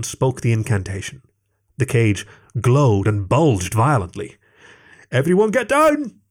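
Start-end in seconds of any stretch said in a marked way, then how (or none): 5.1-6.2 high urgent warning shout. A narrator's reading. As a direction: yell a warning to duck. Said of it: "shouted Antoine".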